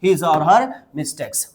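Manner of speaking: each word drawn out slowly for learners; slow dictation pace; slow model phrase. Shown as a demonstration. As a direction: spell it out slowly for students to repeat. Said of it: "उसकी गलतियों को नजरअंदाज ना करें".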